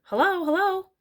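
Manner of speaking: high, loud parrot call. A narrator's reading. Bird calls down the chimney to Matilda, parrot voice. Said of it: "the bird called down to her".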